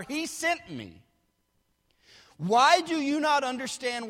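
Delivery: emphatic pulpit reading; preaching scripture as Jesus's rebuke. Acted. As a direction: declare it firmly to hostile listeners. Reads Jesus's rebuke at force.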